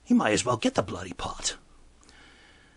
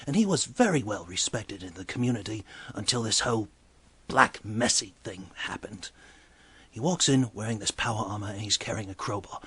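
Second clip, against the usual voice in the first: ordinary talk, nothing marked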